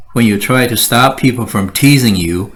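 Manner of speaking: ordinary talk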